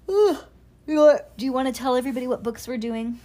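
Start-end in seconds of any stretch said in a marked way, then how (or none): 0.1-0.4 loud tired groaning sigh; weary sigh. Real, not acted. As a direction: let out a big exhausted ugh.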